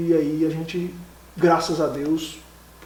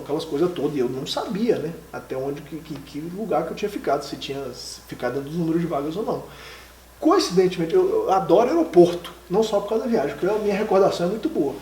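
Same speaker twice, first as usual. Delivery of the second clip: ordinary talk, nothing marked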